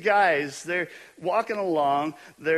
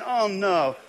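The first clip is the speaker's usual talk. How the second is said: mock panic; 3 semitones higher than usual. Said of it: "I'm thinking".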